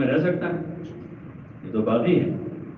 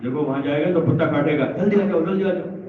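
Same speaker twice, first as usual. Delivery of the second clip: put-on higher-pitched urgent call to a child; warning parent; 5 semitones higher, faster than usual. Parents scaring a runaway child back with a dog, urgent warning. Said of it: "کوئی ڈر بتاتے ہیں ماں باپ".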